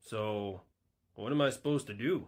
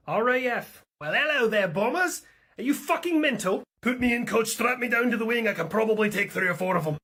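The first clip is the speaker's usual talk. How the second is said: much higher, louder, keen fighter jock; eager RAF pilot; 10 semitones higher, 5 dB louder than usual. Acted. RAF pilot spots Russian bombers and is itching for a fight, high and loud. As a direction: beg to be sent up, bursting with eagerness. British air force character eager.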